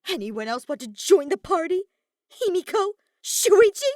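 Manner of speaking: mocking tantrum at the intruders; sarcastic fury. A narrator's reading. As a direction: yell sarcastically, voice cracking. Kokichi raging sarcastically.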